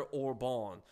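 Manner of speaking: the name Orban with a French accent. Real, not acted. Commentator reading about Hungary's prime minister slips Orban into a French accent. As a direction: give Orban a French-style pronunciation. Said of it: "said Orban with a French accent".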